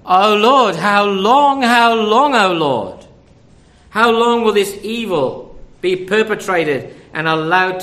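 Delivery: loud pleading cry to the Lord; anguished loud plea. Retold or imitated. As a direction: call out to God, loud and pleading. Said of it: "crying out".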